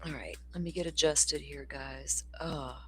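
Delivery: soft unvoiced whisper. Real, not acted. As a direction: whisper it off-mic while fixing gear. Adjusting the setup mid-stream.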